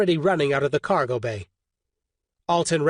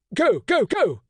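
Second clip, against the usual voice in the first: raised, urgent go go go; urgent shout; 8 semitones higher, slower than usual. A narrator's reading. Alton ordering crew out, urgent shout.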